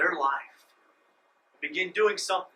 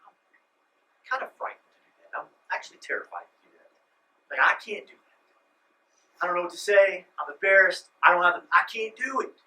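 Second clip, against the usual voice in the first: mock fearful whine; 6 dB louder than usual. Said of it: "all of us are gonna go".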